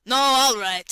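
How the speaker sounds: high, loud retraction; shouted. A narrator's reading. Yashvin calls off his order with a loud high shout. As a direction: call it out at once, cancelling the order. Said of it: "he shouted again immediately after".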